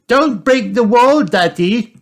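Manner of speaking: high-pitched little pig character warning; squeaky-high, urgent warning; warning Peppa. A narrator's reading. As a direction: warn in a high, loud child-character voice. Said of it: "warns Peppa".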